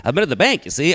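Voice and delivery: a banker who can't drop his radio voice; old-timey work voice. Pretend. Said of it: "talking in my work voice all day".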